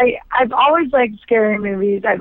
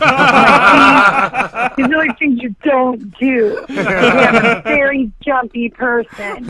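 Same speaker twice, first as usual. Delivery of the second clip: laughing; 2 semitones higher, 3 dB louder, slower than usual. Real, not acted. Laughing, sharing a jumpy story with the hosts. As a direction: laugh while admitting it.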